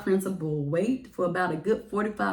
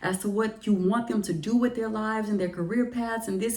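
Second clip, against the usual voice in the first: frustrated venting; 4 semitones higher than usual. Retold or imitated. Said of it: "truly letting it all out to God".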